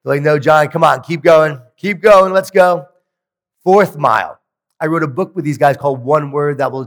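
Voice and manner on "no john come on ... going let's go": cheering him on. Retold or imitated. Friends urging him to run on.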